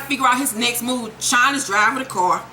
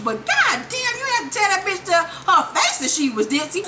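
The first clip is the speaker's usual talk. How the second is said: laughing disbelief; 8 semitones higher than usual. Real, not acted. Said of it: "amused disbelief".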